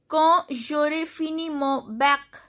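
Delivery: "bac" ending on a hard k; "bac" with a clear k; pronounced final C. Shown as a demonstration. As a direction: read "Quand j'aurai fini mon bac" carefully, sounding the C. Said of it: "C is pronounced".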